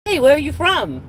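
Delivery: high-pitched retold question from a friend's mom; imitating a curious mom. Friend's mom asks where she's from, high mimicked voice.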